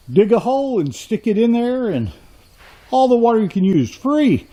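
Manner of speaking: high, upbeat hard sell; mock sales pitch. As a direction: sell it as an unbeatable bargain. Mock sales pitch of water supply.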